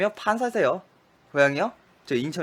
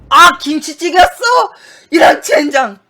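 much higher, much louder frustrated yell; frustrated shout; 12 semitones higher, 15 dB louder than usual. Real, not acted. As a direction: yell in real dismay at the mistake. Realizes he failed the memory game.

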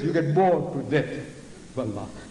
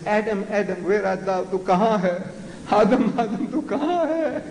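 calling out; 5 semitones higher than usual. Retold or imitated. God calling out for Adam.

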